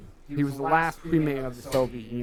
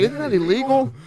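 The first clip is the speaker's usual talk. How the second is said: loud mock question; 11 semitones higher, 5 dB louder than usual. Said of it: "I was like".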